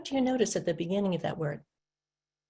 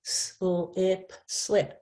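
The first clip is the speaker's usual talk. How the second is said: student blending; much slower than usual. Pretend. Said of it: "my student was really good".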